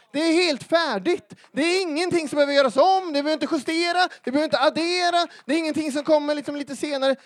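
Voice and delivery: loud, high, rapid-fire proclamation; emphatic preaching shout. Real, not acted. Preacher telling congregation nothing needs adding, shouting emphatically. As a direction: drive each point home at full voice. Preacher at full force after quote.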